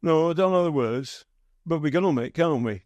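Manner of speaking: a hint of a Brummie supporter answering back. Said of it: "the Brummie guy goes".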